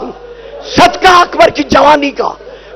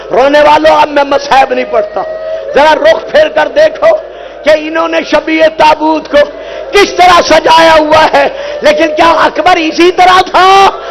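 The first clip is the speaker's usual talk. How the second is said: lament recitation; 3 semitones higher than usual. Acted. Reciter chanting Karbala's grief to the gathering. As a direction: chant the tragedy to the mourners.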